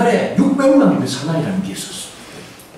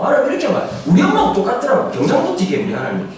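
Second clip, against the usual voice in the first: ordinary talk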